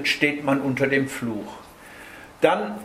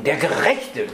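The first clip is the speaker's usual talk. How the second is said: Gerechte given a firm push; stress on Gerechte. Shown as a demonstration. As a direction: hit the word Gerechte after an unstressed der. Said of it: "die Betonung auf gerecht legen".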